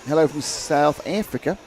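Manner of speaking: slow, hammed-up South African accent on the greeting; a clumsy, half-hearted go at a South African accent; bad South African accent. Reading out a viewer's greeting, in a bad South African accent. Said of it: "Even I did a bad accent then".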